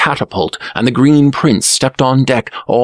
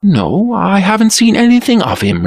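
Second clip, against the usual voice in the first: hasty; 11 semitones higher, 3 dB louder than usual. A narrator's reading. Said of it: "replied the Blue Prince hastily".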